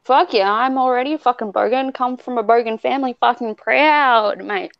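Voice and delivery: proud, full-on Australian bogan rant; Aussie bogan. Pretend. Bogan cheering the T-shirt idea, broad Aussie accent. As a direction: go off in broad Aussie, stretching the boast. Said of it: "she goes off in her Aussie, like, rambling".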